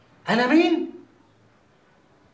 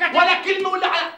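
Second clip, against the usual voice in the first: angry shout; 5 semitones higher, 4 dB louder than usual. Acted. Silencing Atiyya during the call.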